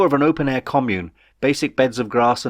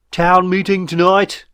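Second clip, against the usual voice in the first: high, loud, slow creature call; hopper calling; 8 semitones higher, 7 dB louder, slower than usual. A narrator's reading. Hopper announcing the meeting, high slow call. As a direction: stretch it out like a squeaky herald. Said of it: "called the hopper".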